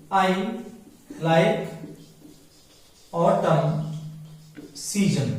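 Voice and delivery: "autumn" said "otum", no n at the end; slow teacher model of "autumn"; silent n in autumn. Shown as a demonstration. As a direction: stop on the m of "autumn". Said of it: "इसको ऑटमन नहीं बोलते हैं".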